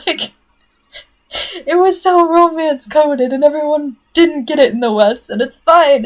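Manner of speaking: high, loud, worked-up fan rant; exasperated rant. Real, not acted. Fan ranting that the West missed the romance, exasperated. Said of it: "stop ranting now about that".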